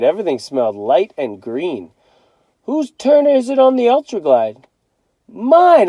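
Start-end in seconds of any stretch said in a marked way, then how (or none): 2.6-4.7 eager call-out. A narrator's reading. Family car game. 5.3-5.9 high, loud shout; kid yelling. A narrator's reading. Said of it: "I yelled".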